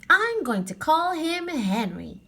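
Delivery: put-on high slow girl voice; lightly voiced young girl; Annie's voice.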